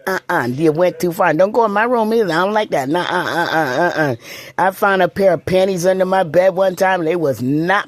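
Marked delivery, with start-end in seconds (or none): 2.9-4.2 laughing no. Real, not acted. Laughing refusal.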